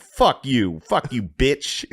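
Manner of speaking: high, stretched-out mock cussing; Jamar Neighbors. Comedian mimicking his friend heckling the crowd, brash. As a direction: imitate a brash comic taunting the crowd. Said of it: "He's like".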